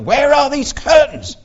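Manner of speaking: high, slow baffled question; puzzled question. Retold or imitated. Preacher recalling his confusion at a meeting, baffled high question. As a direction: ask it in real confusion, drawn out. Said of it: "and I was like".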